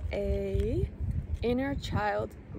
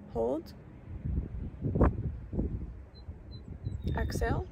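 guided breathing cues; 5 dB quieter than usual. Acted. Meditation guide counting the listeners through box breathing, calmly. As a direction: count the breaths calmly, leaving long silences between cues.

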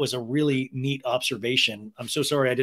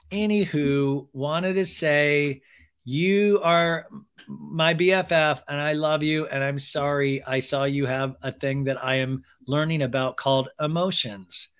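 robotic awkward note; slower than usual. Pretend. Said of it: "you think that would have, like".

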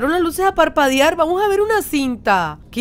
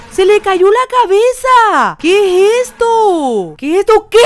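raised voice of disbelief; shocked disbelief; 4 semitones higher, 5 dB louder than usual. Real, not acted. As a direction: exclaim in shock, stretching the words. Shocked as the head falls off.

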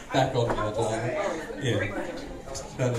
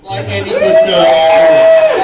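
high mock prim voice; 7 dB louder than usual. Mock prim reply in drag banter.

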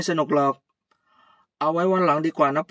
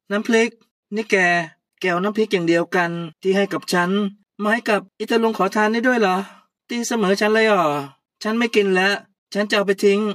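louder and higher jealous outburst; jealous fury; 4 semitones higher, 7 dB louder than usual. Acted. Puy furious that Kaew gave the beggar the same chili paste, louder and higher. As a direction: explode like a jealous, insulted friend.

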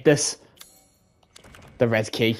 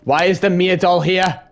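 a touch of rising fear; nervous repeated question; scared; 4 semitones higher, 4 dB louder than usual. Real, not acted. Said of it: "I'm scared".

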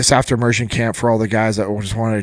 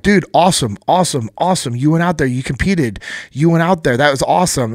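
higher, louder pep talk from friends; encouraging buddies; 5 semitones higher, 5 dB louder than usual. Retold or imitated. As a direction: imitate buddies cheering on a beaten friend. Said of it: "and just encouraging".

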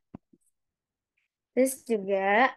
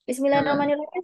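relaxed demo; 5 semitones higher, 4 dB louder, much faster than usual. Shown as a demonstration. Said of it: "Santai aja".

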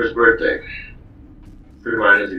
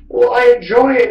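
high, loud mocking girlfriend voice; mocking girlfriend saying she enjoys it; girlfriend's reply; 7 dB louder than usual. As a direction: mimic her in a prissy high pitch. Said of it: "And she goes".

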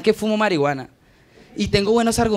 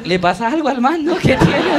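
puzzled audience face; 5 semitones higher than usual. Retold or imitated. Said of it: "Veo caras así como".

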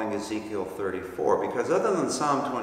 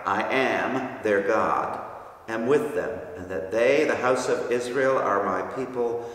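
scripture reading. Acted. Reads Ezekiel verse aloud.

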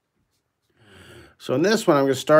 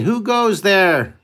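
slow, higher guard call; guard's challenge; 7 semitones higher, 4 dB louder, much slower than usual. Retold or imitated. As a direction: call it out slowly like a castle guard. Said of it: "he's, he's saying".

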